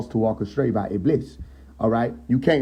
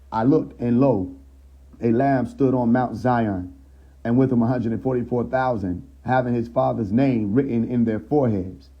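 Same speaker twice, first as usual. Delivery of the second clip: solemn Bible reading voice; scripture reading. Acted. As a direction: read it out like a preacher. Reads scripture aloud.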